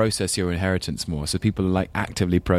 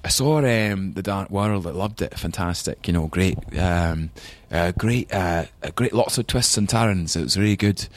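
put-on Scottish accent. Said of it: "He'd be like".

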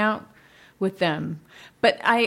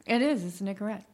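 chewing gum, trailing softer; 2 semitones lower, 4 dB quieter than usual. Real, not acted. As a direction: talk around the gum. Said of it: "I'm chewing gum".

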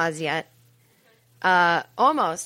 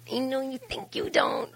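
laughing condescension; 4 semitones higher than usual. Retold or imitated. Condescending reply to millennial.

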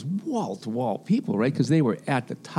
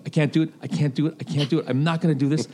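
higher, fast, mock-panicked refusal; hammed-up stage fright, babbling the refusal; imitating panic; 4 semitones higher, faster than usual. Nervous opener backstage before a huge crowd, mock panic. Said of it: "he's completely freaked out".

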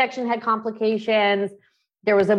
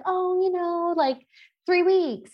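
much higher, airy offhand mom voice; breezy other mom; 10 semitones higher, slower than usual. Retold or imitated. Guest mimicking a casual mom's answer, high and breezy. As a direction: toss it off like it's nothing. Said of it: "And they're like".

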